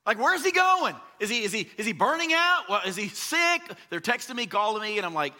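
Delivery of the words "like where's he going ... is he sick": much higher, louder, panicky churchgoer voices; worried churchgoers. Retold or imitated. Worried church members imitated as they text the pastor in a panic. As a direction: play the anxious church crowd. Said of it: "They're like".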